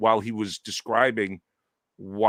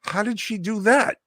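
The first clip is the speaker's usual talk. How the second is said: high, rising mock bafflement; puzzled question; 11 semitones higher than usual. Husband retelling his own question, high and puzzled. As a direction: ask it high and wondering. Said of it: "it went more like".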